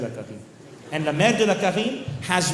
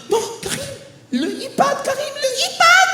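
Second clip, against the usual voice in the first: mock horrified mother, pitched way up; gasping mom. Mom begging her son over the iPad, high and gasping. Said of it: "all his mom is like".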